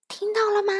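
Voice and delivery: sudden furious outburst; bursting out. Acted. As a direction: explode at them. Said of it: "佛洛格一下子爆发了".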